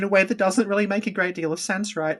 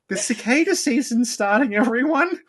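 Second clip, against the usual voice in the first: lightly voiced town crier, pitched up; mock announcement; 5 semitones higher than usual. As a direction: announce it to everyone, rising at the end.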